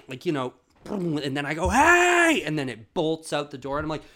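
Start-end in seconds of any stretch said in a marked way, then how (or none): 1.7-2.4 high, loud "hey!"; startled shout. Retold or imitated. Man shouting at the monkey on his bed, startled yell. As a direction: yell to scare off an animal.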